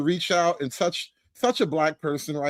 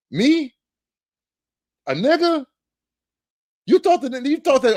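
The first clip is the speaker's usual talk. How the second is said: high, disbelieving questions; mock-astonished, high-pitched indignation; incredulous; 8 semitones higher, 4 dB louder than usual. Incredulous at forgiveness request.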